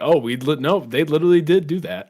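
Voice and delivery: high, loud excited gasp; excited mock quote. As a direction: act out the shocked realization. Mock meta reaction quote.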